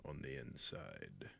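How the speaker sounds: a covetous, hushed whisper; seductive whisper. Acted. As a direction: whisper as if savouring a prize. Dragon admiring captive.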